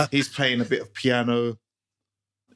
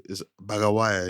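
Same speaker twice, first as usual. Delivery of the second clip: put-on light Jamaican accent, mum's way of saying it. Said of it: "with the Jamaican accent and all that kind of stuff".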